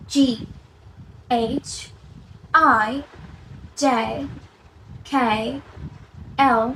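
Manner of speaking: careful English letter names from এ to জি, spaced out; English alphabet demonstration. Shown as a demonstration. Teacher going through again from the start, careful English letter pronunciation. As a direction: recite each letter separately for repeating. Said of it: "তাহলে আমরা শুরু থেকে আরেকবার করি".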